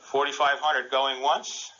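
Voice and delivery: slow, drawn-out auction call; auctioneer. Pretend. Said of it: "I'm gonna be the auctioneer".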